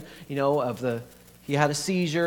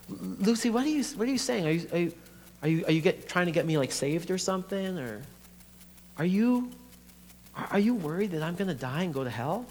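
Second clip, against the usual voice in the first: higher, stammering challenge; incredulous questioning; 3 semitones higher than usual. Acted. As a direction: question your sister, taken aback. Dominic questions sister's motive.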